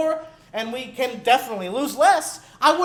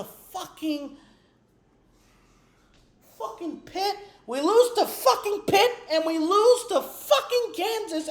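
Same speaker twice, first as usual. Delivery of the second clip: higher, laughing through the words in disbelief; bitter laughing disbelief; 5 semitones higher than usual. Real, not acted. Fan recounting home losses to viewers, bitter laughter. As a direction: laugh at how absurd the losses are.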